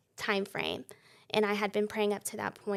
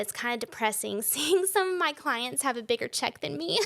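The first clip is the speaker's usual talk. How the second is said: laughing; 4 semitones higher than usual. Retold or imitated. Mentor jokes about low pay.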